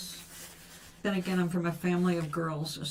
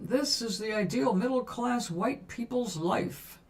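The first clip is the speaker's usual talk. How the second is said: mock promo voice; 3 semitones higher than usual. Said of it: "the way they were promoting".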